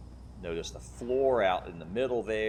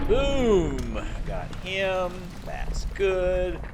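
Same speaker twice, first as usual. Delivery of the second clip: high, loud triumphant call; excited gamer; 10 semitones higher, 6 dB louder, much slower than usual. Real, not acted. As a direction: crow over the kill. Celebrating a kill in game.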